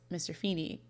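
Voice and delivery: said softly, a hushed mock apology; guilty boy handing back the watch, quietly; retold quiet. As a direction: drop the voice, sheepish and soft. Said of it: "Sean quietly says".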